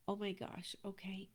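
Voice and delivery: breathy hushed "oh my gosh, okay"; whispered self-talk. Retold or imitated. Coach to herself, letting go of the past, whispering. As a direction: whisper it to yourself like a small realization.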